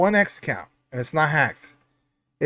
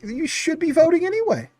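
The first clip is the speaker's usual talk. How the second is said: mocking voice; 12 semitones higher than usual. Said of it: "is gonna be like".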